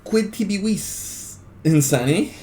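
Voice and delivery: high, slow, ringing declamation of Quid tibi vis; full-voiced dramatic recitation of the Latin line; dramatic declaiming. Shown as a demonstration. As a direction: project the line like a stage orator, drawn out and high. Dramatic reading before ASMR switch.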